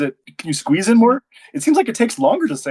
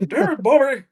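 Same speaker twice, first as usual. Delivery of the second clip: Japanese dub line; 9 semitones higher than usual. Pretend. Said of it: "a Japanese guy go like".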